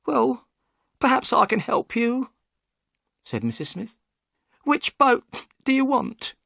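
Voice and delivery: high and obliging, keen to rent a boat; Mrs Smith, eager to help. Acted.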